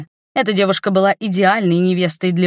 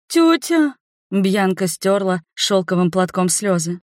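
tearful pleading; 3 semitones higher than usual. Acted. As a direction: beg through tears. Weeping girl pleading.

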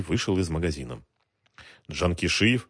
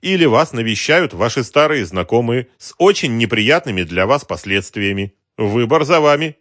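higher, louder suave extortioner; polite racketeer; 5 semitones higher, 8 dB louder than usual. Acted. Racketeer smoothly threatens the shopkeeper, suave menace.

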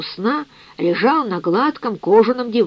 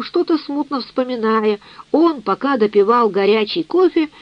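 plain reading voice

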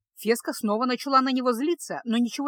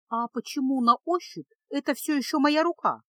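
higher-pitched, questioning apprentice; puzzled pupil; 4 semitones higher than usual. Acted. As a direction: ask like a baffled young pupil. Baffled pupil questions her teacher.

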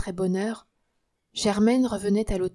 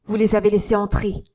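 loud, sharp accusation; accusing; 7 dB louder than usual. Acted. Young man to concierge, loud accusation. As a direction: throw it at him.

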